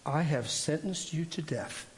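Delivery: slow, gentle, sweet voice of the Lord; a hint of a gentle, sweet divine voice. The Lord speaking into his right ear, slow and gentle. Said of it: "it's a gentle voice. It's really sweet".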